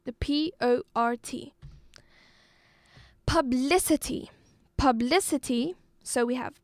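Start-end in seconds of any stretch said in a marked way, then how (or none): 3.2-5.8 publicity with BLI punched; publicity, clearly stressed on BLI; stress on second syllable. Shown as a demonstration. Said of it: "it is on the second syllable".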